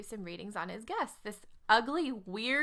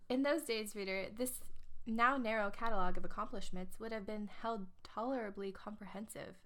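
put-on English accent. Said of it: "her ad was, um, in an English accent".

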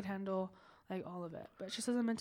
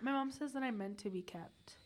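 whispering; 7 dB quieter than usual. Real, not acted. Playful confession to friend.

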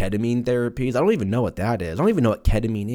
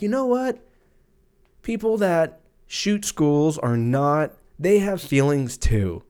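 mock preachy; 5 semitones higher, slower than usual.

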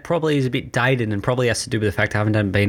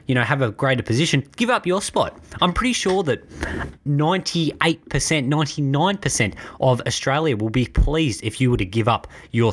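heated rant; 2 semitones higher than usual. Real, not acted. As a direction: tear into him, pitch climbing as you go. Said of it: "the well-known sixty-second rant".

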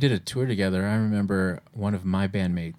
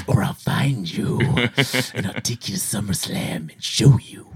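wrestling promo. Pretend. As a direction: deliver it like a ring promo. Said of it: "by sending wrestler voice messages".

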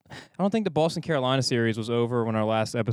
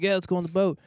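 quoting cousin; 6 semitones higher, faster than usual. Retold or imitated. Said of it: "So he was like".

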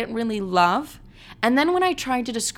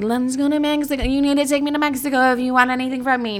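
lightly voiced bratty demand, pitched up; mock demanding girlfriend; 4 semitones higher than usual. To the guy she is dating, a hint of a bratty demand. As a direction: play the spoiled girl insisting on a trip. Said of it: "I was not like".

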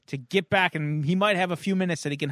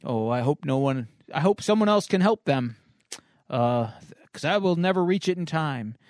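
lightly voiced worried hero; slightly lowered, earnest inner monologue; Superman; 3 semitones lower than usual. Hero fears he cannot reach them in time, mildly solemn. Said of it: "we hear Superman's inner thought".

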